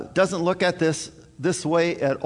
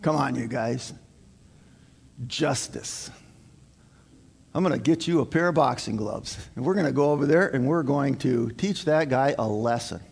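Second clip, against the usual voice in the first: a lightly voiced gruff dad, lower; 4 semitones lower than usual. Dad rallying his son for payback, lightly voiced and lower. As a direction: play the dad itching for a fight, a bit low. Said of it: "You know what Dad wants to do?".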